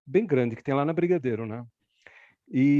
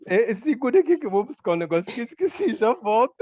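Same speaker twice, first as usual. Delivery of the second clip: hasty excuse; 7 semitones higher, 4 dB louder than usual. Retold or imitated. Acts out excuse to the boy.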